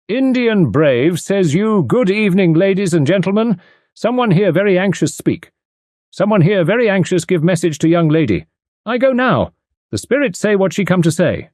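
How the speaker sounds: medium's spirit guide speaking through her. A narrator's reading. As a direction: intone as a mock trance control voice. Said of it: "the voice of the medium's control, a Red Indian called Cherokee".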